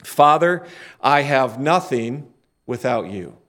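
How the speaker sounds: slow, prayerful lead line. Shown as a demonstration. Preacher leading the congregation in prayer, slow and reverent. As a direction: intone it for the church to repeat. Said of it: "Why don't you say that with me?".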